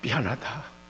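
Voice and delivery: low, soft retold apology; imitating a remorseful teacher; tender apology. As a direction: apologise quietly, holding the boy close. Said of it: "저를 탁 끌어안고".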